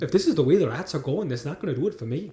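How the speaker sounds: light Irish lilt; loosely copied Irish film line; attempted Irish accent.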